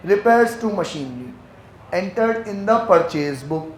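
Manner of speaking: very slow, deliberate reading aloud; slow dictation. Shown as a demonstration. Teacher reading the accounting question to the class, very slowly. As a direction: read the question out word by word.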